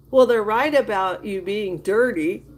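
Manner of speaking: put-on giggling through the kid's line; laughing. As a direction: quote it while breaking into laughter. Quoting kid, laughing.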